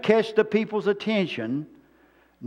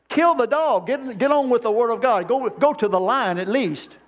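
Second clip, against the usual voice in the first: higher, exasperated mock outcry; impatient outburst; 5 semitones higher than usual. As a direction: tell him to get on with it. Impatient thought at long sermon.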